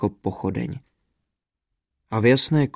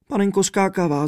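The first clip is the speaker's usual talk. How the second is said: high, tearful cry of a mild sob; a princess breaking into tears, pitched up; vzlykavě, vysoko; sobbing princess; 7 semitones higher than usual. A narrator's reading. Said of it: "zavzlikla princezna".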